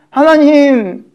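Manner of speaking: high, pleading cry to God; mock wailing prayer. Israelites weeping all night to God, high pleading wail. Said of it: "하고 밤새 울면서".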